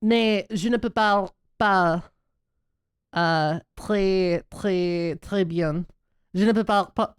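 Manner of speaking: slow, halting French with an American accent; hesitant American-accented French. Shown as a demonstration. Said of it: "or however the fuck it goes".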